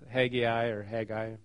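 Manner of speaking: first Haggai "hag-ee-eye", second Haggai "hag-eye"; contrasting pronunciations. Shown as a demonstration. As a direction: say Haggai in three syllables, then Haggai in two. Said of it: "I've always heard it pronounced".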